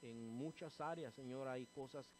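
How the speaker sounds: earnest pleading prayer, calling Señor Padre; closing prayer. Acted. Pastor praying to God for the church, fervent pleading prayer. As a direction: pray over the congregation, fervent and steady.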